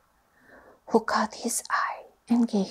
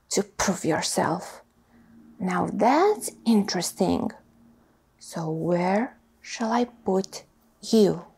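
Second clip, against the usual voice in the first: sorting hat voice. Acted. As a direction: ponder aloud like a wise old hat. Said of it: "said a small voice in his ear".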